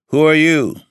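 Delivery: high, loud challenging shout; startled demand. Acted. Old master confronting a stranger in his room, loud demand. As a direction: bark it at the intruder.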